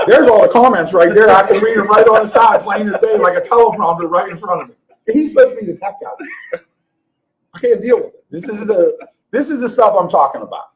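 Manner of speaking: loud, high-pitched exasperated rant. Real, not acted. Griping at the tech guy over visible comments, high voice. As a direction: voice climbing high as the complaint builds. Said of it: "This is why my voice gets so, I, high voice".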